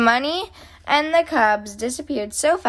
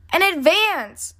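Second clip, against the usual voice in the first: high, drawn-out excited plea; worked-up cub blurting a demand; sputtering; 7 semitones higher, slower than usual. A narrator's reading. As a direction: sputter it eagerly, pitched up. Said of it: "sputtered brother".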